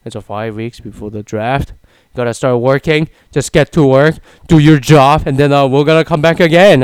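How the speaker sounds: football coach rallying his players, loud; Bill Belichick impression. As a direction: bark it like a head coach in the locker room. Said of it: "like Bill Belichick says".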